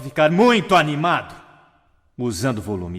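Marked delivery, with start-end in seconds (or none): 0.0-1.4 louder and higher, booming muito animado; loud excited. Shown as a demonstration. Speaker demonstrating volume to an audience, loud and excited. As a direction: burst out with volume. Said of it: "Desculpe se eu assustei alguém".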